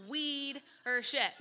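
slow, drawn-out amazed repeat; stunned. Real, not acted. Hearing the sermon title, slowly and amazed. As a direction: savour the word in disbelief. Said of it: "stunned repetition".

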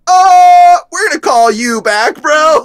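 loud, high "oh", then hurried excuse; retold panic, voice shooting up high; alarmed yelp. Man hanging up on his exposed friend, high mock alarm. Retells alarmed end of phone call.

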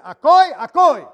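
"Akoi, akoi" called out high and loud, slowly; emphatic loud Akoi. Shown as a demonstration. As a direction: ring out the Greek word. Emphasizing Greek word.

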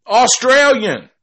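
Australian thrown out high and loud in shock; stunned echo of Australian; disbelief. Real, not acted. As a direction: repeat Australian as if you can't believe it. Repeating the word in disbelief.

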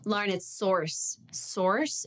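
SOURCE with an American R, patiently corrected; American rhotic SOURCE, the second one questioning; correcting pronunciation. Retold or imitated. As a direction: correct them on SOURCE, sounding the R. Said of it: "And they're like".

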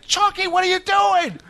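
high-pitched mock exasperation; hammed-up, incredulous telling-off; exasperated host. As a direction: scold the mascot in a put-on host voice. Host scolds mascot, acted.

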